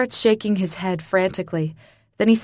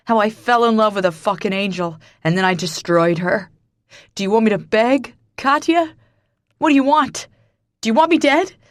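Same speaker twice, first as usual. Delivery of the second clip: anguished shout; 3 semitones higher, 6 dB louder than usual. A narrator's reading. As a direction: voice climbing into raw anguish. Anguished man breaking down, shouting.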